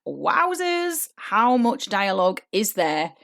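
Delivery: mock amazement. Coach plays an actor seeing a long script, mock amazement. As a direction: react as if daunted by the page.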